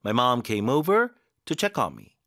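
very slow, each word laid out clearly; slow model sentence. Shown as a demonstration. Teacher modelling a sentence for students, slow and clear. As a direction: read it slowly for learners to copy. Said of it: "어디에 힘을 줘야 되는지".

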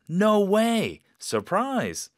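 high, loud joyful no way; happy surprise. Shown as a demonstration. Teacher showing a positive surprised no way. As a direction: burst out in delight. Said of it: "너무 기쁘고 놀랍고".

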